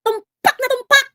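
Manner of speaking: high, slow, loud sarcastic cheer; mock triumph. Host mockingly celebrating the commenter, high and drawn out. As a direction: crow it like a game show win.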